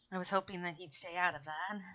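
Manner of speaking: mic cutting out, words dropping; broken-up audio on a bad connection; glitching audio. Real, not acted. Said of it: "You cut out what?".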